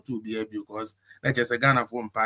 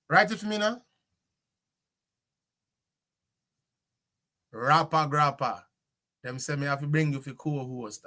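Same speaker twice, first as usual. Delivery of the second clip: light Jamaican lilt, a touch lifted; Jamaican patois; 3 semitones higher than usual. Acted. Host inviting a Jamaican guest to co-host, in patois. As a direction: chat easily in Jamaican patois.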